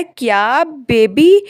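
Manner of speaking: stretched out slowly, stunned and indignant; shocked disbelief. Acted. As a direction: drag it out in outraged shock. Lapel shocked at being called baby. (बेबी कहे जाने पर हैरान होकर, धीरे खींचते हुए)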